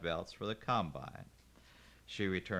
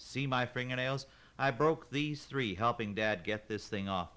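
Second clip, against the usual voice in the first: exasperated rant; 3 semitones higher, 3 dB louder than usual. Acted. Kaylin ranting at the parts man about her nails. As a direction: build the grievance, exasperated.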